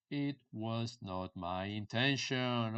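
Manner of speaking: measured, word-by-word example sentence; slowed-down teaching delivery; slow model phrase. Shown as a demonstration. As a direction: stretch out "It was not my intention" for learners.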